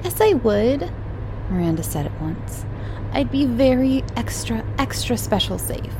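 put-on high, eager little-girl voice; a small girl promising earnestly. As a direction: Miranda as a keen child begging to play. Little girl Miranda pleads.

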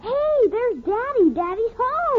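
high, drawn-out cheer; excited child. Acted. Little girl hearing her father come home, excited. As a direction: announce the arrival with delight.

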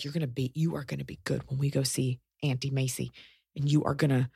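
hushed, firm warning; stern quiet mom. Retold or imitated. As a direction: lean in and warn the child softly. Mom warns kid before visit.

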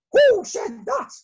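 very high, loud queenly call. Acted. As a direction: call out across the hive. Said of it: "called Queen Bee".

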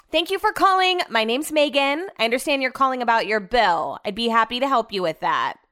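customer service voice. Shown as a demonstration. Call-center rep handling a billing call, super friendly service voice. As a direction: sweet-talk a caller about their bill. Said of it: "That's exactly how I do it, super friendly, all these inflections".

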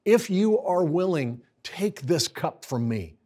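Jesus begging in the garden, pleading; anguished prayer of Jesus. Retold or imitated. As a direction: beg the Father to spare him, then yield. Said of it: "Look at what he says".

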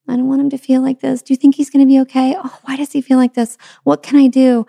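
high, fast anxious mother voice; worried fretting. Retold or imitated. Mother fretting over her sick grandbaby, high anxious voice. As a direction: mimic your own panicky inner worry. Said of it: "What is my go-to and my autopilot?".

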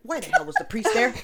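fast and loud, breaking into laughter; telling friends about the priest scare, laughing; laughing retelling. Retold or imitated. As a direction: blurt the question while laughing. Retelling her panic with laughter.

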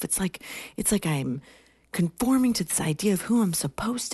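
high-pitched tearful lament; imitating sobbing. Sobbing young woman confesses to older colleague, imitated sobbing. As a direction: play it as a worked-up, sobbing confession. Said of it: "she's, like, sobbing".

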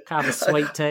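a Southern accent, offering sweet tea. Shown as a demonstration. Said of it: "I've never heard your Southern accent before".

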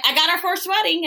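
high-pitched triumphant announcement; mock-excited, pitched well up; excited mom. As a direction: imitate mom proudly breaking big news. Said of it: "she was just like".

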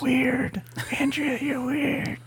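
high, slow teasing sing-song; squeaky singsong tease; mock teasing. Teasing absent wife, high voice.

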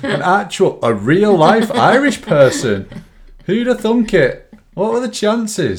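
high, loud, slow mock wonder; mock amazement. Real, not acted. Mocking her co-host's panic over a real Irish person, high, slow, laughing. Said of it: "mocking, laughing, high".

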